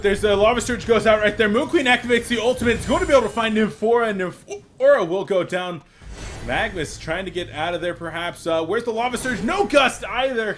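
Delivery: pushing words out without breathing; tight, loud, high and strained; strained breath-held casting. Real, not acted. Casting while holding breath.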